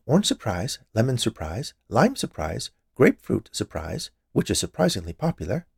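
a hint of an eager, proud baker; lightly voiced chatty confectioner. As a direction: lightly play a woman rattling through her treats.

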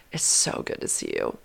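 breathy, voiceless hush; whisper. Retold or imitated. Whispering to him nose to nose. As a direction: whisper close to his face. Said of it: "I decided to just whisper to him".

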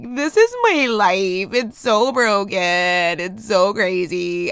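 slow, dramatic tearful lament; retold crying. Mother cleaning crayons off the carpet, slow tearful lament. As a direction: wail it like it's all falling apart, drawn out. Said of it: "I'm legit crying".

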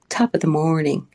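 lightly put-on Hollywood Irish accent; a hint of American-style fake Irish; American stage Irish. Shown as a demonstration. Author mimicking old Hollywood stories, mock American Irish accent. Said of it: "say it in that sort of accent that I just used there".

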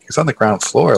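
same words turned into a rising question; can't believe what you just heard; mild mock disbelief, lifted at the end; incredulous echo. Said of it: "And I'm like".

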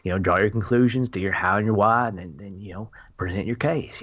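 lightly imitated father; a hint of a dad laying out advice; half-hearted, understated fatherly impression; Coop's dad voice. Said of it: "dad voice".

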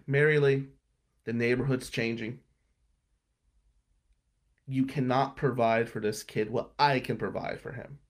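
firm and measured, stopping short of screaming. Retold or imitated. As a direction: retell it firmly, emphatic but controlled. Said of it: "in a firm voice, but not screaming".

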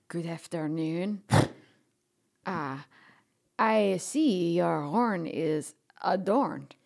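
polite greeting. Acted. Curtsies and greets moonicorn.

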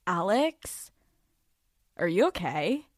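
soft, quiet concerned voice; imitating therapist. Therapist gently checking on her client, soft and concerned. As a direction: ask it softly like a worried therapist. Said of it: "Literally just like that".

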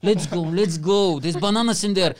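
a touch of frantic excitement; excited urging. Acted. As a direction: hurry everyone out the door. Acts out rushing colleagues to shop.

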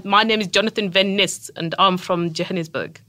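proper South African with clipped vowels; South African accent. Shown as a demonstration. Guest corrects host's South African accent. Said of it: "get your vowels a little more clipped".

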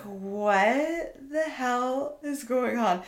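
very slow, drawn-out disbelief; mock disbelief. Storyteller relives peeking out the window, dumbfounded. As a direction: stretch it out as acted bafflement. Retold shock at sight outside window.

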